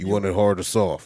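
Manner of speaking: deep booming put-on voice. Retelling what a masseur asked: James Earl Jones voice. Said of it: "straight James Earl Jones voice into my ear".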